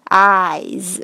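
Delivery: "eyes" drawn out into a z; slow demo, buzzing end on "eyes". Shown as a demonstration. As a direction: voice the final s of "eyes". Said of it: "这个S也是念成Z这个音".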